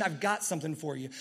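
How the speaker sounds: soft, hushed reassurance; a quiet promise from within; small voice. Retold or imitated. God reassuring Ryan in a hushed voice. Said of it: "in this small voice".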